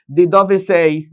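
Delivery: slow Italian read-out. Shown as a demonstration. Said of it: "teacher reads Italian phrase aloud".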